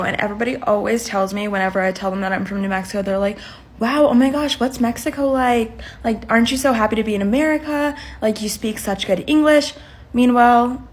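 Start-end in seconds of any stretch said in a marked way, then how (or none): 3.8-9.7 lightly imitated gushing wonder; mock amazement. People learn she is from New Mexico, mock amazed. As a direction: gush a little, like a clueless admirer. Mimics clueless admirers.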